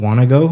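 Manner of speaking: "wanna go" said as one emphatic word; connected speech. Shown as a demonstration. Teacher repeating the example for a student, "wanna go" linked up. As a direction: link "wanna" and "go" without a break. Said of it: "you're connecting all the speech up".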